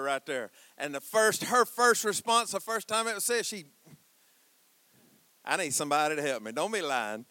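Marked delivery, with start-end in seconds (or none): 5.4-7.3 fast call-out. Real, not acted. Preacher calls on congregation.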